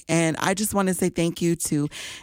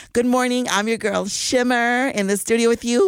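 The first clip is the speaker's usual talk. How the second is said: higher, brighter hype greeting; excited DJ hello; 6 semitones higher than usual. Acted. DJ Shimmer hyping her listeners, excited higher greeting. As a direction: pump up the morning crowd.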